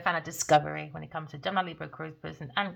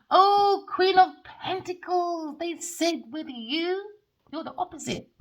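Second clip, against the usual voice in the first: high, slow, loud theatrical calling out; dramatic proclamation; 10 semitones higher, 6 dB louder, slower than usual. Acted. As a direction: announce the card like a grand herald. Dramatic address to the card.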